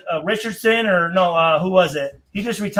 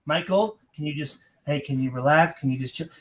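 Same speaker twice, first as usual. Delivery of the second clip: imitating publicist; 8 semitones lower, 7 dB quieter than usual. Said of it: "his publicist was like".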